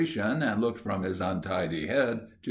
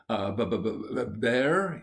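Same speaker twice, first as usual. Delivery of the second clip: stammering disbelief. Acted. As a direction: trip over the word, amazed. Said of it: "he queried".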